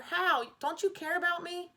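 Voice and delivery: put-on a hurt boy crying out to his mother; hurt pleading cry. A narrator's reading. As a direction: beg mom, feeling betrayed.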